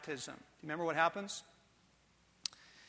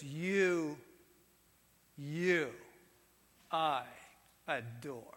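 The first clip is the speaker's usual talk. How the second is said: tender; 4 semitones lower, 3 dB quieter, much slower than usual. Acted. God speaking tenderly to Jesus.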